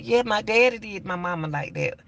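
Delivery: put-on little girl's voice. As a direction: lightly voice the child confirming. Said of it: "She said".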